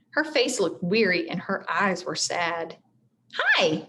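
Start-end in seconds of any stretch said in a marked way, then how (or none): 3.3-3.9 high, small shy hello. A narrator's reading. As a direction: say hi shyly. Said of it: "said Annie shyly".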